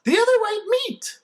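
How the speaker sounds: high, put-on bellow. A narrator's reading. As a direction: bellow it like a slogan. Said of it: "Bad Sister bellows".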